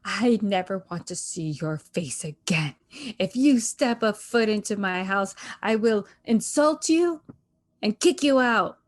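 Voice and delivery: hammed-up parental threat, barely tearful; retold tearful outburst. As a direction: imitate a mother disowning her son. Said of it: "crying and she says".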